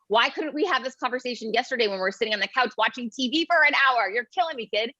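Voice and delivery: mock-weary parent nagging; exasperated mom. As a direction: vent at the kid who left it too late. Mother scolding son in story.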